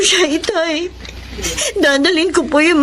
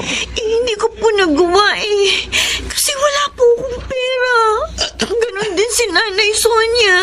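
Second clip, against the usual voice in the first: crying; 4 semitones higher than usual. Acted. Daughter admits she has no money.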